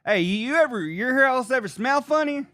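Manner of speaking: high, put-on voice for the old white guy; old white guy's voice. Plumber quizzing the homeowner about smells, in a high put-on voice. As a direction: squeak it out like the clueless old guy. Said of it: "the old white guy's like".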